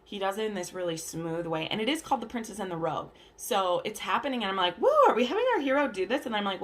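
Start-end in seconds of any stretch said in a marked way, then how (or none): 4.8-6.2 mock excitement. Reacting to scene, own thought.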